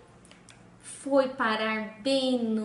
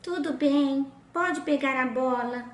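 spoiled princess. Acted. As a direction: squeal it, half disgusted and half eager. Princess gives in.

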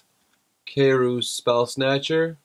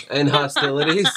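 lightly put-on Southern accent; vaguely Southern accent. Reader amusing his partner, shaky attempt at Southern accent. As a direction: try a rough mock-Southern accent. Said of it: "Southern something".

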